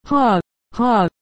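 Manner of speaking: shouted laugh. A narrator's reading. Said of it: "shouted I".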